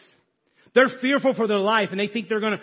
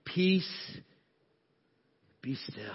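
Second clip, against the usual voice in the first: calm command; 9 dB quieter, slower than usual. Acted. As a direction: still the storm with a quiet word. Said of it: "he simply says with his hand".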